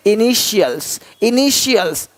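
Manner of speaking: "इनिशियल्स" as i-ni-shials, repeated. Shown as a demonstration. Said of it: "तो उसको श पढ़ते हैं".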